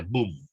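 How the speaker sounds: "boom" said as Spanish bum; pronounced with U. Shown as a demonstration. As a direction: give "boom" one short Spanish U sound. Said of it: "con U, no con O". ("boom" dicho bum, con u)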